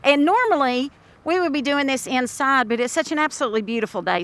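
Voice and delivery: speaking through a face mask; muffled mask voice. Real, not acted. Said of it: "talking through the mask".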